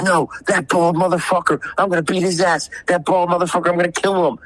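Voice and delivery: mock drunk rage. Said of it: "And he says".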